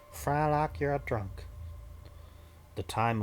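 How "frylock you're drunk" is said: cartoon voice. Quoting a cartoon line in voice.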